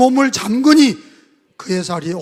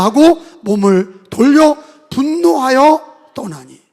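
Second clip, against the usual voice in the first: scripture reading; 4 dB louder than usual. Acted. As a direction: read it out together, measured. Congregation reads scripture aloud. (성경 봉독)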